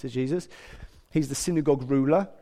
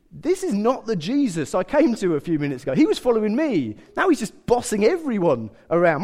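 raised, slightly louder complaint; mock indignation; 4 semitones higher, 4 dB louder than usual. Jairus taken aback by Jesus, mock indignant. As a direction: protest as if affronted by the bossing.

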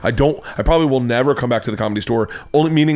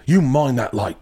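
slightly raised mock British warning; horrible British accent; 3 semitones higher than usual. British host warning comic about time, bad British accent. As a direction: warn in a badly faked British accent. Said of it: "I'm doing once again horrible accent".

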